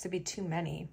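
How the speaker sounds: quiet words between hiccups. Real, not acted. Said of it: "I have the hiccups".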